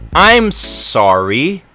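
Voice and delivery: drawn-out apology, lightly imitated; slow mock customer-service sorry; support agent apologizing. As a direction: stretch the apology, lifting at the end. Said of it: "And she goes".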